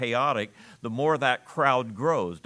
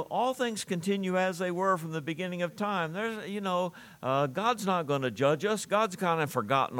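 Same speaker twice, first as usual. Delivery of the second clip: high, sneering scoffer voice; mocking scoffers; 7 semitones higher than usual. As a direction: mimic the scoffers' dismissive taunt. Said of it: "Peter's going to say, "Yeah, but they're gonna say".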